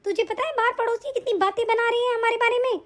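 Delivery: fuming mother-in-law's tirade; angry rant. Acted. Mother-in-law threatening her absent daughter-in-law, angry. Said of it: "आप भी बहुत गुस्सा कर रही हैं".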